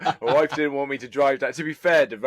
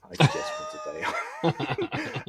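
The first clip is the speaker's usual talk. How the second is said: high, slow, drawn-out shouted plea; pleading wail; much slower than usual. Retold or imitated. Answering family's Christmas question with a high drawn-out wail. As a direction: wail it like a desperate wish. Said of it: "I'm like".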